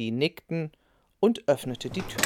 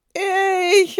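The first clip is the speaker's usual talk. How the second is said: high, loud eager cry; eager shout; 11 dB louder than usual. A narrator's reading. Children answer grandma's cake offer with an eager shout. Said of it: "riefen Ben und Clara wie aus einem Mund".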